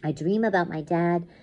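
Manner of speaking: measured, dramatic first-person reading; intense story narration. A narrator's reading. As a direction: tell the nightmare as it closes in. Reads story aloud.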